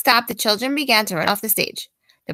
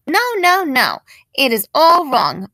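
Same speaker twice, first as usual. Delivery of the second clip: firm no; 3 semitones higher, 5 dB louder than usual. Acted. Teacher rejecting the line-up.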